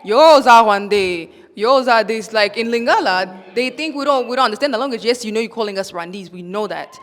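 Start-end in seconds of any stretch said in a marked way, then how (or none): 0.0-2.3 slow, louder imitation of a jeer; mocking taunt. Mimicking online bullies, slow louder jeering taunt. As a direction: drag out the insult like the trolls do. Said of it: "They call you".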